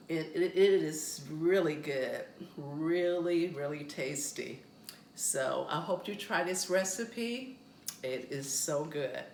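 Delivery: talking with a mouth full; chewing bagel while speaking. Real, not acted. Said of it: "I'm talking with my mouth full of food".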